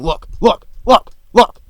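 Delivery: parroting a useless callout; mock callout. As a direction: yell look, look like a panicked teammate. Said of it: "people just saying".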